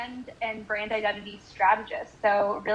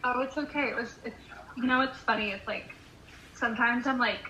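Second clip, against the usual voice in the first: phone call. Real, not acted. Friend heard over a call.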